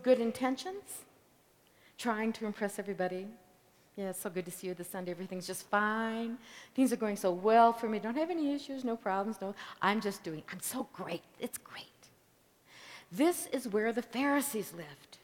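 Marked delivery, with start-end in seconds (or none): 4.0-12.1 rapid, chirpy fake small talk; mock fake churchgoer. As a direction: rattle it off like a hollow greeting. Mocking superficial churchgoer small talk.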